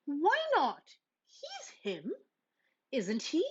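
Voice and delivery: put-on high, cheeky kid voice; cheeky cub. Brother talking back to Mama, cheeky. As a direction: toss the question back innocently.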